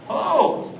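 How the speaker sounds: Hello jumped way up high in a falling squeak; a cartoonish high-pitched Hello; high squeaky hello. Shown as a demonstration. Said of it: "all the ways you can say hello".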